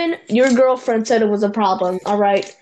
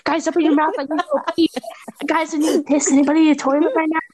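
imitating friend; 3 semitones higher, faster than usual. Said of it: "all I hear is".

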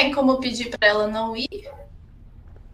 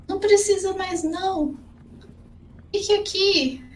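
high voice, slowing at the end; imitating Faela; 11 semitones higher than usual. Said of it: "imitações de pessoas".

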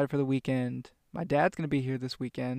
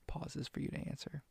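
Dora voice; 11 dB quieter than usual. Pretend. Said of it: "I feel like Dora".

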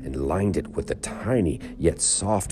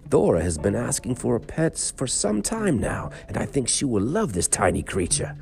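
lightly voiced Earl; 6 semitones higher than usual. Earl's voice in story.

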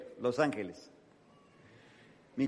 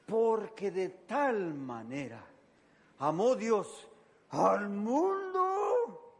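slow, higher, crying on al mundo; voice breaking; 7 semitones higher, much slower than usual. Shown as a demonstration. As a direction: let the voice crack at the end. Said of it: "repite el versículo, quiebra la voz". (voz quebrada por el llanto)

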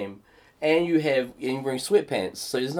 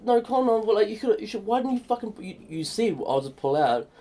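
mock angry ex; 8 semitones higher than usual. Ex-missus quarrel voiced.

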